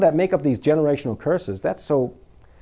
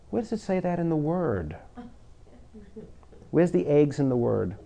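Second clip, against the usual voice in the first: sweetly; 7 dB quieter than usual. Retold or imitated. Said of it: "you say very sweetly".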